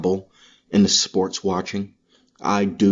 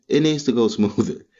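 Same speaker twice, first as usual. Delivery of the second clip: laughing; 4 semitones higher than usual. Real, not acted. Frustration repeated with a laugh.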